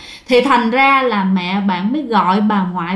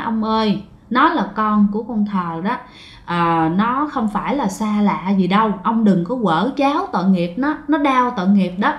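lower-pitched, understated grandmother's prayer; prayerful pleading; 3 semitones lower, 3 dB quieter than usual. A narrator's reading. Grandmother at grandfather's grave pleading for her grandchild, prayerful pleading. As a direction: plead quietly with the dead, lightly acted. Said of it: "bà bắt đầu khấn vái".

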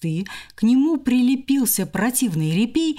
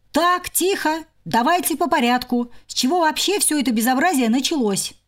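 higher, firm and quick; stern hamster; 6 semitones higher than usual. Acted. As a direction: take charge of the quarrel. Hamster taking charge.

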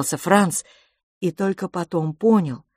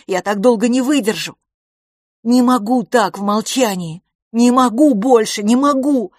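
higher and louder, near tears; desperate pleading boy; 5 semitones higher, 7 dB louder than usual. Acted. Boy begs his silent twin brother, pleading desperately. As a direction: beg him to answer you.

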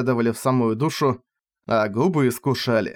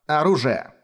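awkward; 3 semitones higher than usual. Acted. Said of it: "неловко добавила она".

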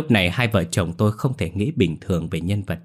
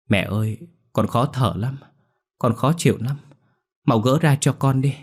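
put-on feverish child; 4 semitones higher than usual. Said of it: "mơ mơ màng màng nói".

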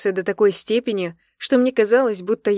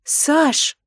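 high, louder groaning name; exasperated moan; 8 semitones higher, 5 dB louder than usual. Acted. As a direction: moan his name, rolling eyes. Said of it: "простонала я".

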